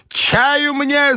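high, curt order home; commanding old lady. A narrator's reading. Grandmother ordering everyone home, high and curt. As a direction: snap the order to leave. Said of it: "закричала бабушка".

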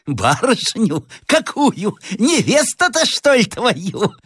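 high, cackling village madwoman; slow, high, crazed croak; hoarse madwoman. Acted. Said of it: "сказала охриплым голосом". (полоумная, охриплый высокий голос)

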